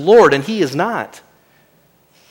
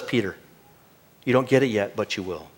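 much softer, gentle, almost hushed; merciful reply; 8 semitones lower, 11 dB quieter than usual. Retold or imitated. Jesus gently answering Peter, soft and merciful. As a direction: let it fall to a tender hush. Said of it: "He mercifully responds and says".

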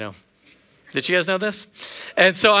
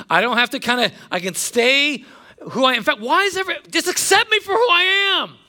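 higher, rising pleading complaint; stubborn whiner; 5 semitones higher than usual. Retold or imitated. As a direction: whine like someone who won't change. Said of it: "because you're like".

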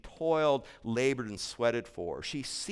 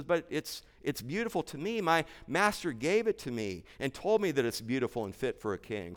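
put-on hurt little girl; 2 semitones higher than usual. Hurt girl answers the messenger.

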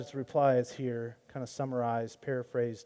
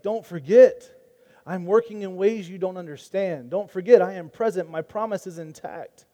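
emphatic assurance; 2 semitones higher, 4 dB louder than usual. Retold or imitated. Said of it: "God is just saying".

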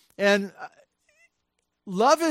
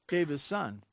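softer, sinking repeat of "Gave his son"; soft echo; 7 dB quieter than usual. Real, not acted. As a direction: let "Gave his son" fall away quietly. Echo of key phrase.

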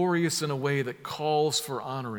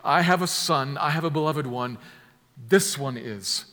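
a louder, raised "I have a son", slowing on "this one is"; royal proclamation; 5 dB louder than usual. Shown as a demonstration. Preacher giving the right reading as a coronation, louder. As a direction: announce it like crowning a king. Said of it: "This is saying".

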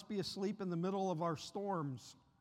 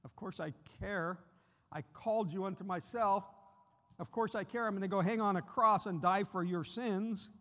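gentle reassurance; 2 semitones higher than usual. Acted. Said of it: "I could imagine he would say".

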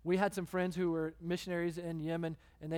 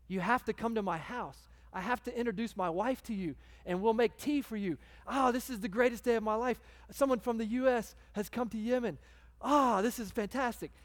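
excited, higher and louder, gushing; host beside himself with excitement at an American guest; overjoyed welcome; 4 semitones higher, 3 dB louder than usual. Retold or imitated. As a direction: play the thrilled taxi driver bursting with delight. Driver thrilled to meet an American.

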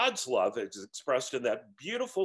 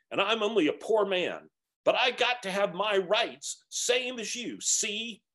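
aggrieved ghost; 6 semitones higher than usual. A narrator's reading. Ghost insists on his rights to the spirit, aggrieved. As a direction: demand your rights bitterly.

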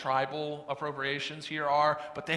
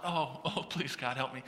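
laughing plea; 5 semitones lower, 6 dB quieter than usual. Retold or imitated. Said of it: "And I'm just like".

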